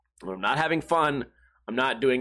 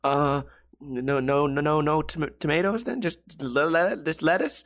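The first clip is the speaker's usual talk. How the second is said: mock nervous stammer; 2 semitones higher than usual. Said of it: "starts shaking and sweating".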